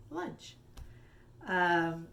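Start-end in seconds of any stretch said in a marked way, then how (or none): 0.1-0.6 whispered reveal. Acted. Riddle answer revealed.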